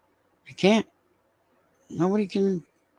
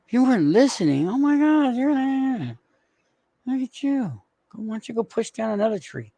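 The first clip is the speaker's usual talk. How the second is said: high teasing voice; 6 semitones higher than usual. Real, not acted. Streamer teases chat member.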